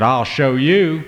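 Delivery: slow, sulky defiant threat; angry boy pushed too far; mad. Acted. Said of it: "got real mad".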